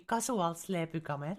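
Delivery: thick Finnish reading of the English words; Finnish pronunciation. Shown as a demonstration. Streamer showing a viewer their name said wrong, Finnish pronunciation. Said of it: "say it the Finnish way".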